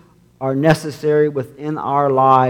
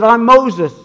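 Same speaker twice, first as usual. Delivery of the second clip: parrot voice; 8 semitones higher, 5 dB louder than usual. Acted. Parrot answers the burglar.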